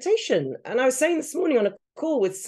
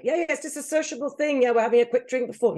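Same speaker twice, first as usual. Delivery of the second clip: mock breezy excuse; 4 semitones higher, faster than usual. Mocking the drinker's excuse.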